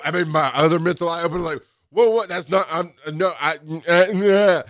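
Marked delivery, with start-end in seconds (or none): 1.9-4.6 flustered backpedal. Retold or imitated. Kids confront him, flustered.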